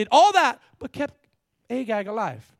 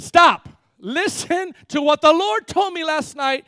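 loud, high, prophetic rebuke; commanding interruption; 8 semitones higher, 9 dB louder, slower than usual. Acted. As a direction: cut him off hard, then slowly proclaim. Acts Samuel cutting Saul off.

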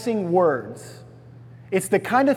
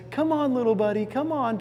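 higher, softer coaxing of a wary animal; 5 semitones higher, 4 dB quieter than usual. Retold or imitated. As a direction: lure him gently, higher and softer. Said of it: "to coax him along".

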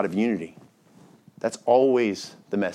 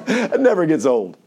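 gloating devil; 5 semitones higher, 7 dB louder than usual. Acted.

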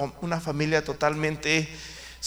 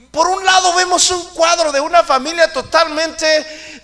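high, loud, driving sermon voice; preaching at full force; 10 semitones higher, 12 dB louder than usual. Acted. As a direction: hammer home the point to the church.

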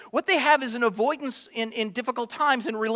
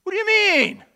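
loud, raised defensive snap; angry denial; 7 semitones higher, 9 dB louder than usual. Pretend. Churchgoer getting angry when confronted. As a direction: bristle and deny it angrily. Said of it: "we get angry".

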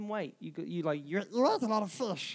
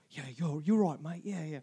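put-on Americanized accent. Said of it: "the American version".

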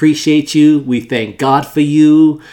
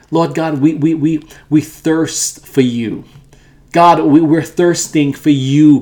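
earnest, pleading prayer voice, swelling in places; fervent prayer. Acted. Pastor praying over listeners and viewers, fervent prayer. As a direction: pray it out, calling on God.

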